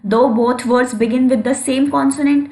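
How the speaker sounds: slow, deliberate reading of the definition; dictating pace; slow dictation. Shown as a demonstration. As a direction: read it out word by word for notes. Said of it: "teacher dictating definition slowly".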